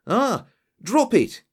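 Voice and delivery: high, loud, slow warning shout; sudden shout. Acted. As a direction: bark the order to drop the gun. Inspector stops a drawn revolver.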